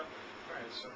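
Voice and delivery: low private mumble, not for the customer; mumbled to himself. Shown as a demonstration. Salesman jotting notes at customer's table, mumbling quietly. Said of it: "I kinda mumble to myself".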